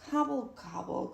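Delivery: half-hearted turkey grumble; grumbling gobble. Acted. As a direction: mutter the gobbles crossly. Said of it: "grumbled Turkey".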